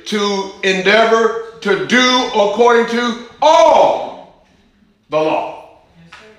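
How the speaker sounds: rising preacher's intensity; fervent preaching. Acted. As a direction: drive it home like a revival preacher. Preacher building to fervent peak.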